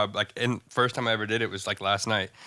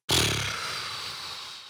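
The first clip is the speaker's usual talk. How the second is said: distraught sigh; 4 dB quieter than usual. Acted. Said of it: "sit down and be like".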